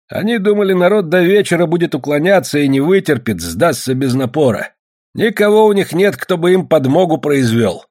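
high, insistent complaining speech; agitating villager. A narrator's reading. Villager urges the others not to yield, agitated.

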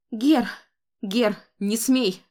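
loud frantic cry; desperate shout. A narrator's reading. Grandmother shouts at the boy to keep away, desperate. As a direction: stop the child with a desperate yell. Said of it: "отчаянно закричала Констанс".

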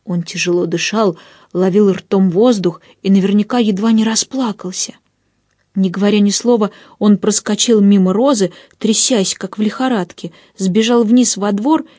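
ordinary delivery

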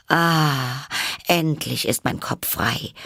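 high, bright delighted exclamation; delighted cry. A narrator's reading. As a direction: cry out with relief at being free. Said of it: "rief Alice mit Entzücken".

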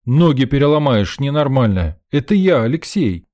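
loud, high shout; shouting so she hears it is him; calling out. Acted. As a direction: yell a warning after her. Shouting at the fleeing girl.

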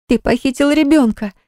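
repeating like wound up. A narrator's reading. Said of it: "как заведённая повторяла".

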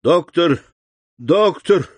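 high, urgent repeated call; crying out. A narrator's reading. Sick servant feels a new fit coming, high urgent cry. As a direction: call desperately for help. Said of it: "крикнул Баруа".

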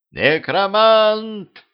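very high, slow drawn-out panicked yell; crowd yell. Acted. Толпа в ужасе орёт и разбегается, протяжный высокий крик. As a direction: scream the name as the crowd flees. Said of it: "заорала толпа".

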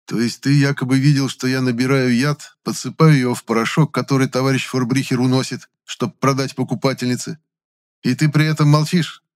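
high, mocking and amazed; surprised mockery. A narrator's reading. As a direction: needle him with feigned surprise. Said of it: "удивлённо насмешливо сказал я".

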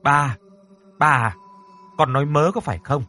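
loud worried calls; mother calling out to her startled daughter. Acted. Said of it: "thì liền gọi".

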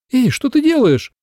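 loud defiant admission turning into alarm; startled outcry. Acted. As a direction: flare up, then cry out at his hand. She defiantly admits, then startles.

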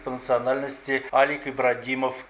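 steady, formal newsreader delivery; radio news anchor reading a crime report. Acted. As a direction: read the bulletin crisp and neutral. Presenter reads the news.

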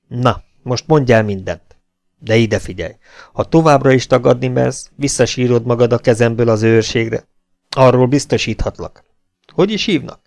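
loud, threatening officer's voice; stern captain interrogating. Acted. Captain threatening the native prisoner, loud and menacing. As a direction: lean on him hard and menacing.

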